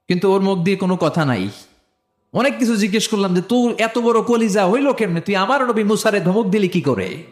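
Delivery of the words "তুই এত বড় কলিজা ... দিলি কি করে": higher-pitched rebuke building in force; indignant scolding. Acted. Preacher berating the Pharaoh's mummy, indignant and rising.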